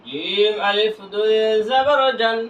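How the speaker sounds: slow, long-held syllables; measured recitation drill for learners; drawn-out spelling. Shown as a demonstration. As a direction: stretch জিম and each name after it. Same spelling repeated drawn out.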